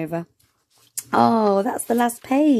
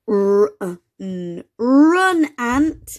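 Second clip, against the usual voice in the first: exclamation; 2 semitones higher, 4 dB louder, much slower than usual. Acted. Max warning Ant to flee the hen, loud urgent call. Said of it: "with an exclamation mark".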